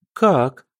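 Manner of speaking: high shrill outrage, rising sharply; a daughter shrieking at her father over her dowry. A narrator's reading. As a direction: screech it at your father in disbelief. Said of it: "заверещала Октавия".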